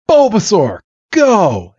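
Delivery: high-pitched battle call; acted trainer's command, falling from high. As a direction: send your monster into battle. Trainer calls out monster in battle.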